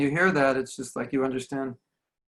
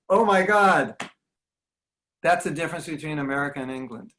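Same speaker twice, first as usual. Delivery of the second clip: amazed disbelief; 4 dB louder than usual. Retold or imitated. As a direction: gasp at the cultural contrast. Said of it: "And I'm like".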